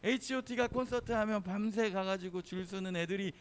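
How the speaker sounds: a half-hearted retold telling-off; scolding. Young preacher scolding bored kids, mock scolding. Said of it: "막 뭐라고 했어".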